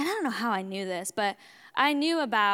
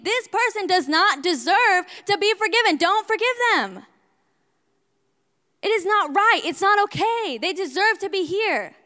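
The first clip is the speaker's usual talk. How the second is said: higher, louder Pharisee-like condemnation; self-righteous outrage; 7 semitones higher, 7 dB louder than usual. Retold or imitated. The Pharisee in the story refusing forgiveness, loudly. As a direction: declare it like an unforgiving judge. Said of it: "I was the one that was saying".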